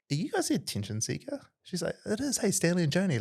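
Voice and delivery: high, eager recognition; imitating excited fan. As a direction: gush like a fan spotting them. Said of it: "And she was like".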